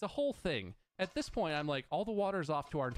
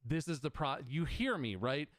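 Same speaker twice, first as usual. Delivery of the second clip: mock the outburst at the worker; angry yell at the phone worker, half laughing; retold swearing at the worker; 5 dB louder than usual. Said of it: "And I say to this dude".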